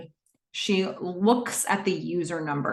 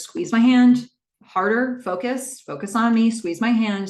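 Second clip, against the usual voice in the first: urgent grounding; 4 semitones higher, 5 dB louder than usual. Retold or imitated. Calming a panicking friend.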